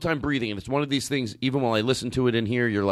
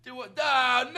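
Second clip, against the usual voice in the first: exasperated robber; 12 semitones higher than usual. Acted. Robber answering in acted scene.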